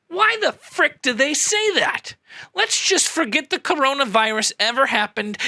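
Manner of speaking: exasperated. Acted.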